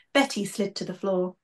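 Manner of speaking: lively storybook narration with character voices; story reading. A narrator's reading. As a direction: read it like a children's author bringing it to life. Author reads her book aloud.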